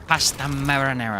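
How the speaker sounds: pasta marinara in a hammed-up Italian accent; light fake Italian accent; mock Italian accent. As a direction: roll it out like a cartoon Italian chef. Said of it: "It's supposed to be Italian".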